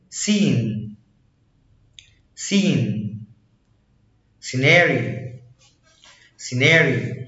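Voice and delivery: "سين" and "سيناري" with sc as a single s; s sound. Shown as a demonstration. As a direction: model "سين", "سيناري" starting on a plain s. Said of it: "بتتنطق سي".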